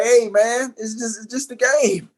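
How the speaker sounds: fake-sorry with a laugh; gloating pretend apology; mock innocent. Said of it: "I be like".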